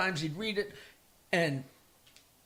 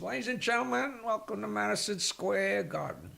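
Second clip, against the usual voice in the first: lightly hammed-up ring announcer introducing the challenger; boxing announcer. Comedian retelling a joke, lightly playing the boxing ring announcer. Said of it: "the announcer comes out and says".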